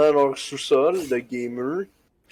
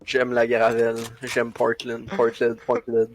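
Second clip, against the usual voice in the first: lightly mimicked friend, lower voice; imitating a friend; 5 semitones lower than usual. Mocking friend who asked to be imitated, lowered voice. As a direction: mimic your friend in a low, repetitive mumble. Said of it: "Imite-moi".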